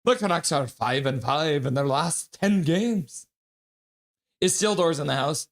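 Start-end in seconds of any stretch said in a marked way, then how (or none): 0.0-3.3 Irish accent. Shown as a demonstration. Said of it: "Irish accent".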